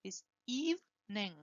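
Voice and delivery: evening said as EEV-ning, two syllables; teacher models evening as EEV-ning, two syllables. Shown as a demonstration. Pronunciation teacher modelling evening as EEV-ning. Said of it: "Two syllables".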